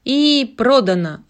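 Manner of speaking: loud drawn-out sold; auctioneer. Acted. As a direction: announce the sale like an auctioneer. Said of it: "объявил аукционист".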